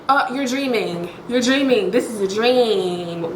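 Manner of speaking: a hint of a rapper soothing him back to sleep. Telling the waking man it's all a dream, lightly voiced rapper. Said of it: "I'm finna start doing the rapper".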